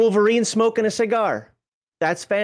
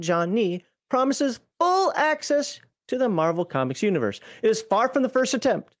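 reading aloud. Acted. Reads review text aloud.

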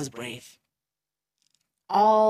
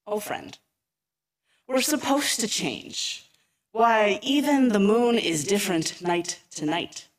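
gentle reassurance. Acted. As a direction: soothe a frightened friend kindly. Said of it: "Alex smiled gently".

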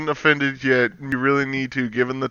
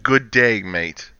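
mock Aussie greeting, lower; hammed-up Australian g'day; Australian accent; 6 semitones lower, slower than usual. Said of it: "At least he didn't lead in with".

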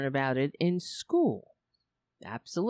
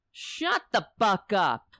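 mock annoyed snap. Snapping at wife over mic.

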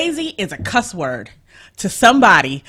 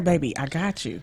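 softly, as a partner's promise; reassuring partner; 6 dB quieter than usual. Acted. Partner promising to handle things, mildly reassuring.

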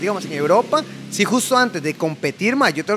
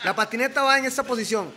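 laughing; 6 semitones higher than usual. Real, not acted. Laughing while explaining trick.

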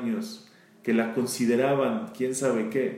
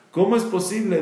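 laughing disbelief; 6 semitones higher, 4 dB louder, faster than usual. Real, not acted.

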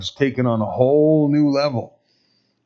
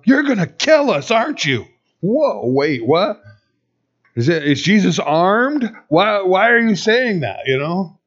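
mildly panicked, higher-pitched questions; alarmed crowd; 5 semitones higher than usual. Acted. Preacher voicing the crowd as fear runs through, mild alarm. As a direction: act out startled, jumpy disbelief.

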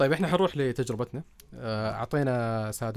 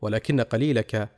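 formal standard arabic; 4 dB louder, slower than usual. Shown as a demonstration. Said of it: "كان بيت المتنبي هو".

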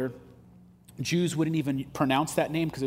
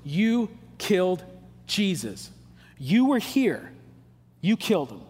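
insistent accusation; 3 semitones higher than usual. Retold or imitated. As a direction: point the finger and insist. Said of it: "Peter's insistent".

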